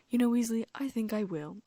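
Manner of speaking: loud, bright, delighted teacher; eager and pleased. Acted. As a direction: jump at the excuse to leave. Lockhart delighted to leave.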